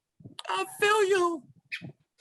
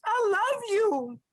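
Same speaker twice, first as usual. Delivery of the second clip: crying; slower than usual. Real, not acted. Tearful declaration to new brother.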